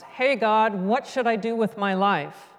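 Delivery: frog's understated call up to God; mild shout. Acted. Cartoon frog calling up to God, mild shout. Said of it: "he looks up and he shouts".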